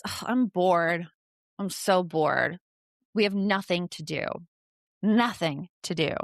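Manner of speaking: put-on bored kid. Shown as a demonstration. Kid tells mom there's nothing to do, bored and in control. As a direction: groan it out like a mildly bored, complaining kid. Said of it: "they're usually doing it kind of like this".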